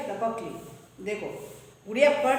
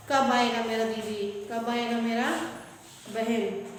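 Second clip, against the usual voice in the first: missing sibling. Retold or imitated. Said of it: "ऐसे हम लोग सोचते रहते हैं".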